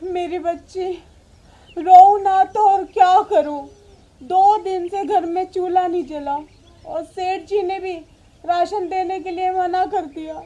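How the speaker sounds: weeping mother's lament; tearful. Acted. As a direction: plead helplessly through tears. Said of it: "आप रो क्यों रही हो". (रोती हुई माँ की आवाज़)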